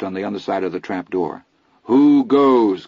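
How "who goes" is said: loud call, higher; yelled. Acted. Chris yelling at whoever knocks, loud. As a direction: call out to the door. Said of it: "Chris yelled".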